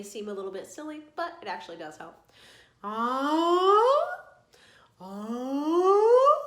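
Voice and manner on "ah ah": reversed yawn demo, loud and rising; rising yawn slide. Shown as a demonstration. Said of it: "Reversed yawn".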